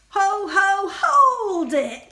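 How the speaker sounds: sudden loud elf stopping a trespasser; cried out. Acted. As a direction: bark it out as a bossy elf. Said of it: "cried the elf".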